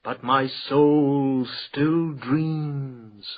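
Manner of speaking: slow, lilting recital with long held words; poetry reading. Acted. Poet reciting verse to the salon audience, slow and lilting. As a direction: savour each line like a bard. Poet reads his poem aloud.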